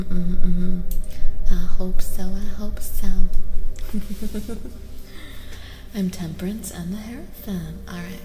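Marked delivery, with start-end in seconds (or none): 3.1-5.9 airy little chuckle. Real, not acted. Small laugh after hoping so.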